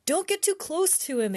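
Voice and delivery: a brother warning his sister off, a mild shout. Acted. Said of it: "Jack shouted".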